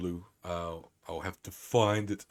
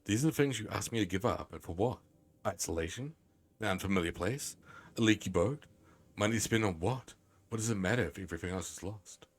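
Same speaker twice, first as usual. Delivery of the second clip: measured, lilting letter reading; reading aloud. Acted. Streamer reads Grandma's pleading letter aloud, lilting storytelling tone. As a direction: read it out like a heartfelt in-game letter.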